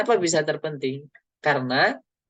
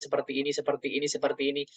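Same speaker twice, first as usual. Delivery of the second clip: quiet rehearsal mutter; 5 dB quieter, much faster than usual. Shown as a demonstration. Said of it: "Bahkan saya sampai merem, kemudian membayangkan".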